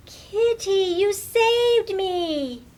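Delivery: high, loud, slow grateful cry; a rescued girl hugging her pet. Acted. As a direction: pour out relief and thanks. Lily thanking her rescuer.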